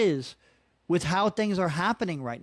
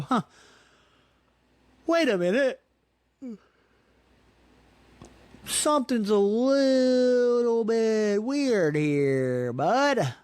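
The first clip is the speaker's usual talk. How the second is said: puzzled inner voice; 5 semitones higher, much slower than usual. Retold or imitated. Realizing something's off, inner voice.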